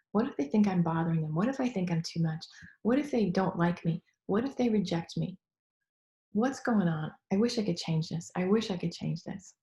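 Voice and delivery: tapping round. Shown as a demonstration. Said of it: "I'm just gonna do one round of tapping".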